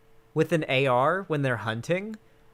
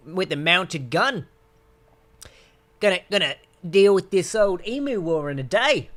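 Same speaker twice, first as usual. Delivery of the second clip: higher, boastful mock Australian accent; 3 semitones higher, 4 dB louder than usual. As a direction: brag about the emu war in a bad Australian accent. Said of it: "I can't do an Australian accent".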